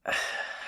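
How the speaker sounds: unvoiced breathy sigh. Bracing for an awkward talk, sighing.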